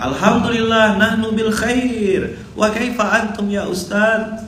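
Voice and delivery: high, slow chanted class answer; pupils reciting. Retold or imitated. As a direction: recite like children in chorus.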